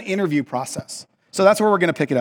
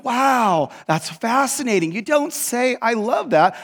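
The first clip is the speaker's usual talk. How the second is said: high, overdone mock wonder; patronizing enthusiasm; 5 semitones higher, slower than usual. Tour guide humoring an eager guest, patronizing. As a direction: feign fascination to humor him. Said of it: "she was just being patronizing".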